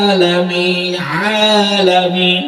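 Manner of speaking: আলামিন with the ain squeezed in the throat; Arabic ain in আলামিন, throat pressed; throat pressure on ain. Shown as a demonstration. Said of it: "আইনটা গলার ভিতরে চাপ দিতে হবে".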